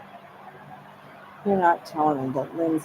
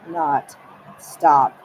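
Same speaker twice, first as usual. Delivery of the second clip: loud, forceful stop; shouted stop; 13 dB louder than usual. Retold or imitated. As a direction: yell the stop. Stan's retold command.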